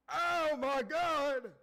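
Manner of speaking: loud, high, slow shocked cry. Real, not acted. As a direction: drag out the shock. Reacting to the drama.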